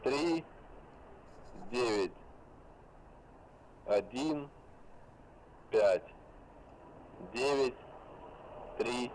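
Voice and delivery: dictating. Real, not acted. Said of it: "Теперь пишем цифры".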